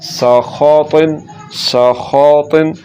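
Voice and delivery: सखौतिन slowly with thick खौ and T; full-mouthed सखौतिन; drawn-out, rounded सखौतिन; heavy letters. Shown as a demonstration. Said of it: "इसी तरह तिन पढ़ना है".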